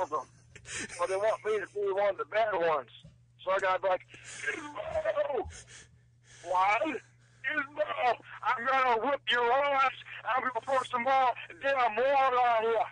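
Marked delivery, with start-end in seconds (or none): 4.5-12.8 high, snarling gremlin; mock bad gremlin shouting at Gizmo. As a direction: play a nasty little gremlin yelling. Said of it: "the Gremlins voice again".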